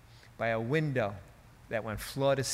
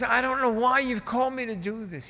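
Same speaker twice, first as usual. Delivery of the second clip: high booming plea; E V Hill; 11 semitones higher, 4 dB louder than usual. Retold or imitated. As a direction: protest to God in a big, high pulpit voice. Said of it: "He was booming".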